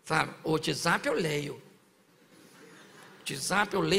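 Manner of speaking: slow, low drawn-out complaint; lightly voiced lazy member; mock drowsy churchgoer. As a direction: stretch it like you're half asleep. Mimicking sleepy reader.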